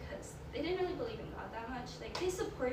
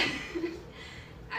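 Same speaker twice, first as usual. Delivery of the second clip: higher, breathy laugh through emotion; teary laugh; 6 semitones higher than usual. Real, not acted. Apologizing to friends for getting emotional, teary laugh. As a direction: laugh to keep from crying. Holding back tears, apologizing.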